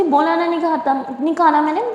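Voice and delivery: huffy, pouting no with the slip खाता; sulky refusal. Acted. Simran refusing food to Durga, mildly sulky and huffy. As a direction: snap back in a childish sulk. Simran sulks, misspeaks in anger.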